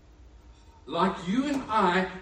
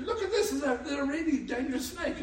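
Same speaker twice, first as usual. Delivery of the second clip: laughing excited show-off; 8 semitones higher than usual. Retold or imitated. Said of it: "he said".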